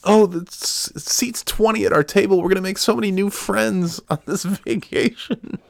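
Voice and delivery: high, gushing chirpy tourist voice; mock an overeager cruise passenger dreaming of new friends; mocking cruise people.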